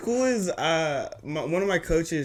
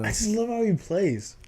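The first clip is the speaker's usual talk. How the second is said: whispering; 6 semitones higher than usual. Real, not acted. Whispered aside about a favorite player.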